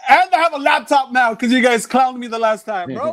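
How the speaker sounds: playful protest. Real, not acted. Comedian answering friends who clowned him last time, playful loud protest. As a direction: protest loudly to friends who teased you.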